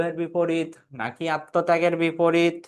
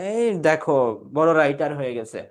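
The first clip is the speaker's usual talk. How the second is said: mild teasing jeer; mocking; 2 semitones lower than usual. Teacher imitates friends teasing a would-be writer, mildly mocking. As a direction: gently ridicule a would-be writer. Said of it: "উপহাস করে বলতেছি".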